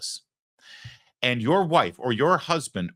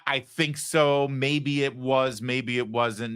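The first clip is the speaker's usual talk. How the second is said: slow, noncommittal hedge; mock waffling; slower than usual. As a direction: stretch out the maybes.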